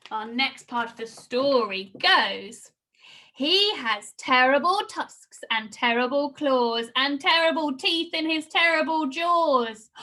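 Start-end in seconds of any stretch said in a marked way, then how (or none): 3.3-9.9 put-on lively read-aloud for children; storytelling read. Teacher reads the Gruffalo to her class, lively storytelling. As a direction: paint the monster for the kids.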